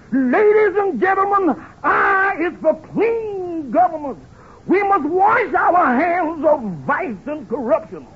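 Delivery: slow, booming stump oratory; soapbox speech. Retold or imitated. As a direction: orate like a politician on a soapbox. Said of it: "made the greatest speech of my career".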